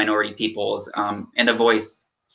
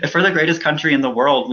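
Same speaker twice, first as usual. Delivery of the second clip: pushing through; 4 semitones higher, faster than usual. Real, not acted. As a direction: push the line out firmly.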